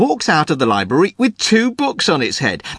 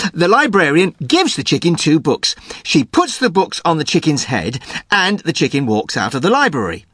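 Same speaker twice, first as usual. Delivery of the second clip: ordinary talk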